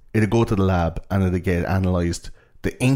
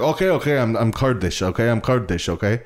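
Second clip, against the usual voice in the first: flustered admission; 3 semitones higher than usual. Acted. Caught asylum seeker confesses.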